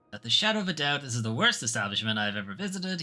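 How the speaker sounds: lightly voiced pompous complainer, starting loud; pompous guest. VIP guest swearing off the hotel kitchen, mildly pompous. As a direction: declare it with mild pomposity. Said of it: "he said in his pompous accent".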